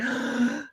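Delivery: sharp mock gasp before ordering; dramatic gasp. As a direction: suck in a quick, theatrical breath. Acting out his drink order.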